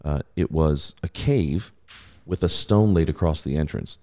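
measured, steady Bible reading; scripture reading. Acted. Pastor reading scripture to the congregation, measured. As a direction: read the passage with weight.

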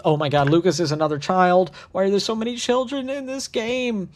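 high, dismayed complaint; comic despair, climbing high at the end; exasperated. Real, not acted. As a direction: break off and wail in exasperation. Narrator breaks off, dismayed by roster.

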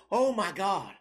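imitating a panicked guy with a whimper in the voice; mock panic. Stranger panicking over lost keys, mock whimpering panic. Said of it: "the guy kept freaking out".

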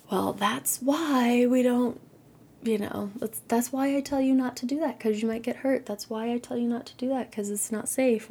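mock grumpy parent lecturing; a hint of an exasperated parent scolding. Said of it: "grumpy parent mode".

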